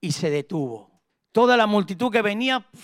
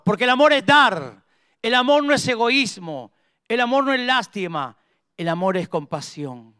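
preacher's punchy, raised-pitch proclamation, falling at each end; emphatic preaching; 2 semitones higher than usual. Acted. Preacher defining love for the congregation, emphatic preaching. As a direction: declare each statement with conviction.

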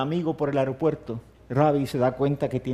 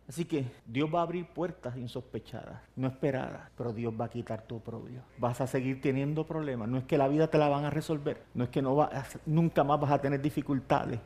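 much softer, intimate and close; hushed promise; 7 dB quieter than usual. Acted. Pastor consoling the congregation, much softer and hushed. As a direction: drop to a near-hush to comfort. Sudden drop after loud climax.

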